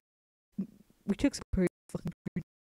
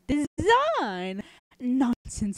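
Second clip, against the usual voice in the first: higher, louder mock outrage; scoffing wife; 4 semitones higher, 5 dB louder, much slower than usual. Wife scoffing at her husband's word.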